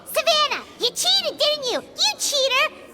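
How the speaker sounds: angry accusation. Acted. Companion accusing Savannah of cheating, indignant. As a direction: point the finger hard.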